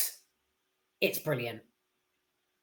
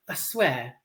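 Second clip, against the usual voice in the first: normal talking voice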